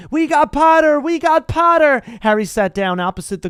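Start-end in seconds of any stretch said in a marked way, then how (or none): 0.1-2.0 gleeful high yell. A narrator's reading. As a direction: whoop it out to the hall. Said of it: "the Weasley twins yelled".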